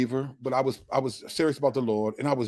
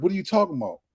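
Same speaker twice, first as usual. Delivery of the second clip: puzzled; 6 semitones higher, much faster than usual. Retold or imitated. Churchgoers baffled by his question.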